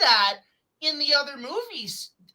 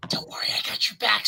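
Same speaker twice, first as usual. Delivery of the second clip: fast, hushed whisper; whispered reassurance; 3 semitones lower, faster than usual. Retold or imitated. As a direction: whisper it like a loyal ally. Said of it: "He's like".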